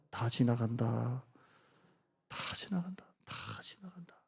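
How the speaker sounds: 느리게 시작해 점점 속삭임으로; 회중이 따라 하도록 천천히 작아지며. Shown as a demonstration. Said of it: "한번 따라 하실까요?". (회중에게 따라 하라며 속삭이듯 시범)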